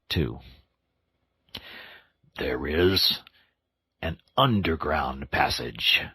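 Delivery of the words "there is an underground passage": slow, weighty reveal; impressively. Acted. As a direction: lower voice, hinting at a secret. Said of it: "said the Badger impressively".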